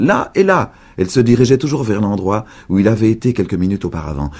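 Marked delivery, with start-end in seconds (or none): 0.1-0.7 high, louder cry. A narrator's reading. Old woman chasing boy, high loud cry. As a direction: point him out with a shout. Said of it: "criait-elle".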